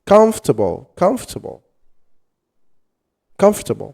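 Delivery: "Comfortable" as KUM-fter-bul; "Comfortable" three syllables, light "ter"; sounding out words. Shown as a demonstration. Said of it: "it's ter".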